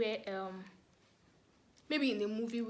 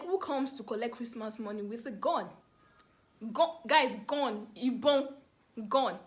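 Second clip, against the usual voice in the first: outraged disbelief; 6 dB louder than usual. Retold or imitated. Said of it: "And I'm like".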